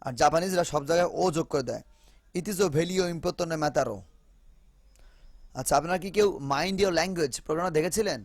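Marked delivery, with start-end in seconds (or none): 2.4-3.9 slow "it is a very important matter" in a mock Japanese English accent, "very" said as "velly". Teacher imitating how Japanese learners say it. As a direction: imitate the accent with an extra o added after words. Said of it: "বলে ভেলি".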